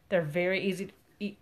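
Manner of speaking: talking through a burp; words pushed out on a burp. Real, not acted. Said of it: "Excuse me. There's a burp there".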